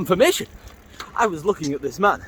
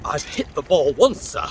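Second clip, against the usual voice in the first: imagined retort; slower than usual. Retold or imitated. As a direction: defend himself, slowly and pointedly. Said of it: "Which I didn't actually say".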